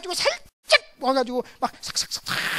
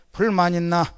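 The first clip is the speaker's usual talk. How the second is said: Gyeongsang dialect with a laugh; laughing Gyeongsang question; 4 semitones lower, 4 dB louder than usual. Retold or imitated. Husband asks his family, laughing in Gyeongsang dialect. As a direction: chuckle through it in Gyeongsang dialect. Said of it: "항상 내가 묻는 질문이 있어요".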